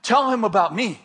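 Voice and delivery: measured inner prompting; voice in the mind. Retold or imitated. Inner voice prompts the frightened speaker, steady instruction. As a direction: give a simple, steady instruction. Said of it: "I hear this voice in my mind".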